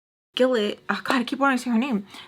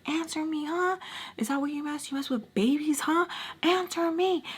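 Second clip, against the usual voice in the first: retold demanding; 7 semitones higher, 4 dB quieter than usual. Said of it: "Wink Wink is still going off".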